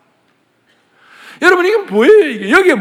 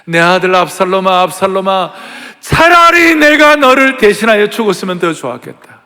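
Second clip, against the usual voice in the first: wailing lament; 5 dB louder than usual. Acted. King David wailing aloud for Absalom. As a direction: cry out the lament as a grieving father. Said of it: "통곡을 하면서".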